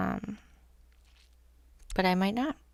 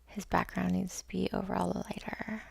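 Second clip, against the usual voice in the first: whispered; 5 dB quieter than usual. Real, not acted. Tired musing over painting.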